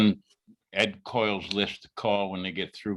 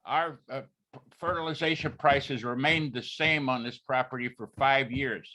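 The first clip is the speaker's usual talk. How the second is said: raised, higher voice to be heard; speaking up; 5 semitones higher than usual. Real, not acted. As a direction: speak up so the room can hear. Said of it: "Could you speak up".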